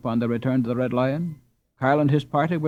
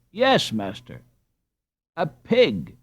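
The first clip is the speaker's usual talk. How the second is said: injured air; 4 semitones higher, much slower than usual. Acted. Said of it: "with an injured air".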